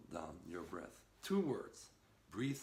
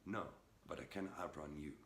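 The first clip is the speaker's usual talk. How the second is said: really calm; 6 semitones lower, 4 dB quieter than usual. Retold or imitated. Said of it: "really calm".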